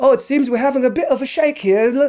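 bad fake New Zealand accent. Quoting her press conference during an earthquake; bad New Zealand accent. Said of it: "That's not even the right accent".

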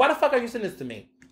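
irritated, rude, cursing snap. Retelling own reply to someone in the DMs: imitating own annoyed retort. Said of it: "I was so annoyed".

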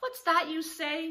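high, frightened outcry full of dread. The donkey, told it will carry him into the city, crying out with dread. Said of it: "cried the donkey with dread".

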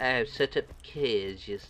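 bad, failed attempt at a German accent. Speaker repeats a game character's line, trying a bad Dietmar von Heinrich Zimmerschneid accent. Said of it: "I can't do that accent. I'm trying though".

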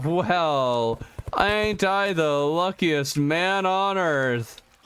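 heavy, dry, slow sarcasm with drawn-out well. Playing a game on stream after getting another band of regen, sarcastic. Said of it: "That was sarcasm".

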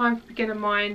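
ordinary talk

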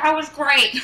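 acted-out muffled, loud, high mouth-full talk. Imitating someone talking with a mouth full of bread. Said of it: "his mouth's full of bread".

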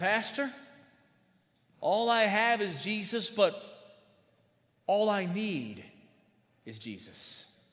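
wavering, trembling, unsteady man's voice. Speaker retells the frail old man standing again, imitating a quivering voice. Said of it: "in his quivering voice said".

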